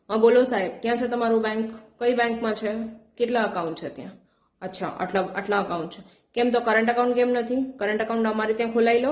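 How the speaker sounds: pushy rapid-fire questions; interrogating tone. Shown as a demonstration. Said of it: "તમે મારા જે વોઇસમાં interrogation જેવું". (પૂછપરછ જેવો ટોન)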